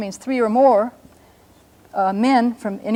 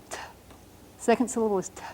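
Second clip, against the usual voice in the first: whispered syllable; 9 dB quieter, faster than usual. Shown as a demonstration. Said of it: "because you whisper it".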